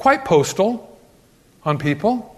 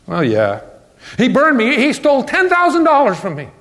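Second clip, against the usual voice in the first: aggrieved complaint; 5 semitones higher than usual. Acted. Voicing an aggrieved believer.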